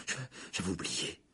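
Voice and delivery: sheepish apology. A narrator's reading. Passenger excusing himself to the conductor, sheepish. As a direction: falter softly in apology. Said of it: "répondit précipitamment Harry".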